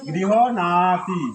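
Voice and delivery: গৃহ নাতি said very slowly, each part separate; slow careful pronunciation. Shown as a demonstration. Teacher models গৃহ নাতি slowly for students. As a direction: draw out গৃহ নাতি, gap between গৃহ and নাতি. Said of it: "উচ্চারণ কি হবে".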